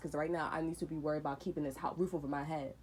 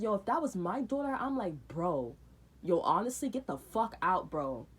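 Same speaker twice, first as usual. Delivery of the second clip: angry shout; 3 dB louder than usual. Retold or imitated. Retold yelling at her.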